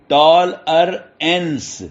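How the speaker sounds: "ٹال ار اینس" slowly, in three separate beats; syllable by syllable. Shown as a demonstration. Teacher counting syllables for students, "ٹال ار اینس" slowly separated. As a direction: break "ٹال ار اینس" apart, tol, er, ence. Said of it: "تین بن گئے نا".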